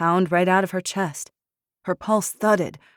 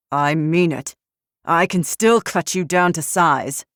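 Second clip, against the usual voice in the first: menacing; 6 dB louder than usual. Acted. Poe menacing threat.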